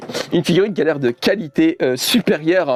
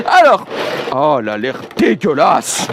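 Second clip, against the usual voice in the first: ironic disgust; 4 dB louder than usual. Pretend. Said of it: "C'est ironique, hein".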